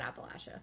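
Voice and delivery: Appalachia with LATCH in the middle, softly; core regional pronunciation. Shown as a demonstration. Explaining what core locals call it, Appalachia said appa-LATCH-uh. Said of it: "in core Appalachia, they call it".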